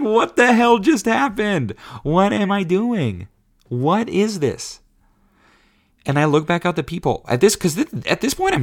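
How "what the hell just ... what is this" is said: retold panic. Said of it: "And I was like".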